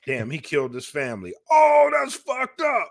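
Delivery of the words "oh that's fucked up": stunned and appalled; shocked outcry. Real, not acted. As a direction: let the shock burst out slow. Reacting to killing family.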